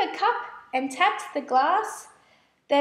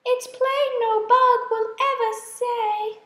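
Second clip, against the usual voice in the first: higher, hopeless sighing voice; sad sigh; 7 semitones higher, 3 dB louder than usual. A narrator's reading. Spider dabbing her eyes, sighing sadly, higher hopeless voice. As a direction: sigh it in gentle despair. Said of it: "sadly sighed".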